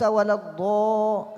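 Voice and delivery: الضو drawn out with rounded o; wrong rounded dad. Shown as a demonstration. Sheikh demonstrates the error to students, rounded الضو. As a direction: round the vowel of الضو towards waw. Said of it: "لو أشبعته يتولد الواو".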